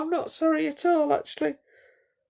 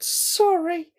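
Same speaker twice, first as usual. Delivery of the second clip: whispered sorry. Real, not acted. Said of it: "do you know why I'm laughing".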